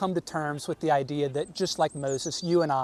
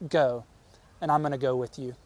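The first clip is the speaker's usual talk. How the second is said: lower, gentle promise; tender reassurance; 3 semitones lower, faster than usual. Retold or imitated. Preacher voicing God gently reassuring Moses, lower and tender. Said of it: "he tenderly said to Moses".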